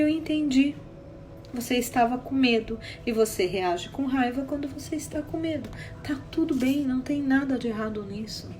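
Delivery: soft, gentle acceptance; calm, softened therapist voice; retold reassurance. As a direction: reassure a frightened client without blame. Reassuring client after crying fit.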